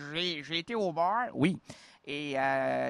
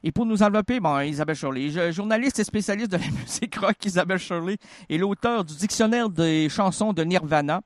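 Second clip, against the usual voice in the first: lightly louder formal guest introduction; announcer introduction; 2 semitones higher, 3 dB louder than usual. Acted. Host introducing the guest to listeners, announcer style. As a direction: present the guest like a radio host.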